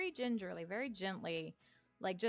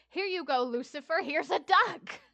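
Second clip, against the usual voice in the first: high, louder friendly offering; cheery offering; 8 semitones higher, 9 dB louder than usual. Retold or imitated. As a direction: hand it over gladly. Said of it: "everybody was like".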